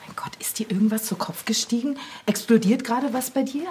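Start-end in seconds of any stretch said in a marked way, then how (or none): 0.1-2.0 exasperated whisper. Acted. Annoyed aside to a colleague.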